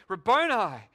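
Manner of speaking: Mary crying Rabboni to the risen teacher; cried out. Acted. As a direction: call out the word in sudden recognition. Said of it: "cried out in Aramaic".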